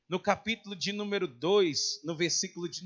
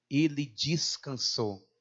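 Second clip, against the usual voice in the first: low, slow, reverent close; grave, unhurried ending; solemn and slow; 5 semitones lower, slower than usual. Real, not acted. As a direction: let the words settle slowly. Closes David's life, echoing key word.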